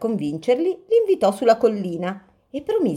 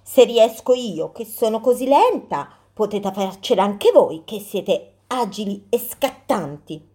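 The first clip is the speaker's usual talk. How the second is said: tortoise voice; 3 semitones higher than usual. Acted. Tortoise encourages squirrels.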